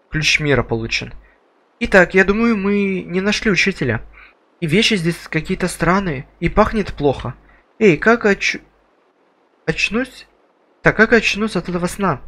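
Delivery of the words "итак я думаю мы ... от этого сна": a hint of a higher girl voice; lightly voiced young girl, uneasy; girl character voice.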